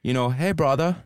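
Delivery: put-on high, loud Dutch accent. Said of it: "I'll do it in the Dutch accent".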